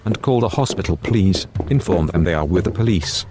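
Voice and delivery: the detective calls his secretary in; polite police detective, a touch loud; stern detective. Acted. Detective NPC voice.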